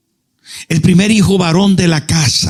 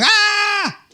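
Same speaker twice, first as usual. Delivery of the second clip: mock shout; 14 semitones higher, 5 dB quieter than usual. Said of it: "dan siete vueltas y gritan".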